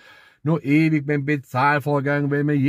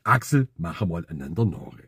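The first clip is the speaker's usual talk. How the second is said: put-on girlfriend voice; 9 semitones lower, 4 dB quieter than usual. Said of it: "sie das zu mir sagt".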